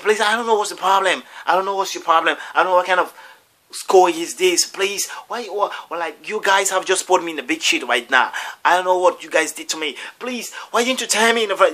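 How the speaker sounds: high-pitched outraged protest; acted indignant complaint. Man confronting the school over admissions, acted indignation. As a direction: play the wronged customer making a scene.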